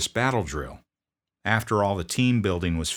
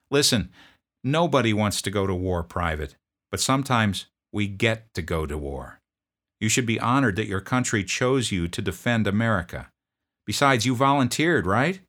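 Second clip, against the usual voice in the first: loud, higher, curt demand; drill sergeant; 4 semitones higher, 5 dB louder than usual. Retold or imitated. Drill sergeant confronting a sniffling private, loud bark. Sergeant lecturing scared recruit.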